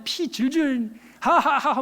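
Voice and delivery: slow, jeering laugh through the words; mocking laugh. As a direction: laugh at the bleeding missionary. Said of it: "웃으면서". (비웃으며 웃는 소리)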